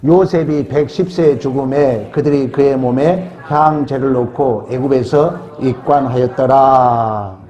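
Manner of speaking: slow, stretched, measured reading; scripture read in unison. Real, not acted. Preacher leading congregation in the verse, solemn slow reading. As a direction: draw out the verse, lengthening the final word. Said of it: "다시 한번 합독합시다".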